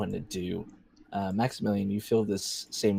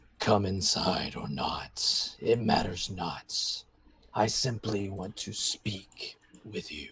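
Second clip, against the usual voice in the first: rumbling disembodied voice, as if inside the head. Game narrator voices a voice speaking in a character's head, rumbling voice. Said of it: "he hears the rumbling voice say".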